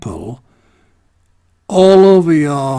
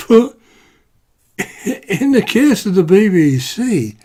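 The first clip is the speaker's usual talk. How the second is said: laughing in disbelief; 6 semitones higher than usual. Real, not acted. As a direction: laugh at the absurdity as you speak.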